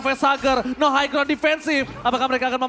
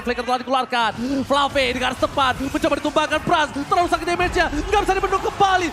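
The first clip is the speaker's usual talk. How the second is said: live play-by-play; faster than usual. Acted.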